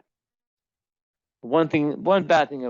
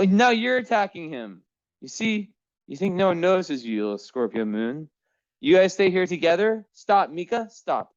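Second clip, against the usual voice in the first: scolding cats; 7 semitones higher than usual. Real, not acted. Owner breaking up another cat fight, high scolding. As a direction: tell off the attacking cat in a high voice.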